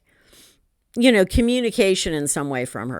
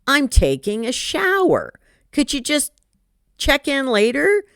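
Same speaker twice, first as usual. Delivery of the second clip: exasperated; 6 semitones higher than usual. Retold or imitated. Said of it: "I go".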